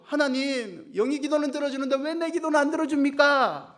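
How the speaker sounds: high, loud whiny grievance; resentful complaint. Acted. Cheolsu complaining to God about unanswered prayer, high and aggrieved. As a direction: complain to God like a wronged boy. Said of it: "원망을 하죠".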